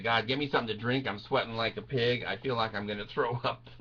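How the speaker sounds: low, soft and spent; drained plea. Acted. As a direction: ask weakly, as if about to be sick. Exhausted, sick after ride.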